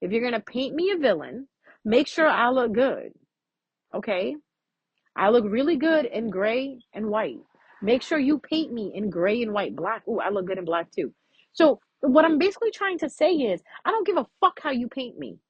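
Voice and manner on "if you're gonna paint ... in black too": sassy. Retold or imitated. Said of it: "I always say this".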